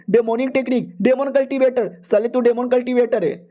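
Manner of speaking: a hand just cut off, panic rising; elder shocked as the demon baby cuts his hand; panicked elder. Acted. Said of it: "Elder भी कहता".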